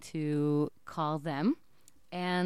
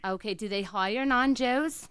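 put-on Jewish accent; 5 dB louder than usual. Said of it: "I'm gonna be in an accent".

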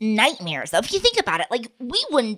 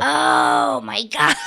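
shouted oh my God; 12 semitones lower, much slower than usual. Real, not acted.

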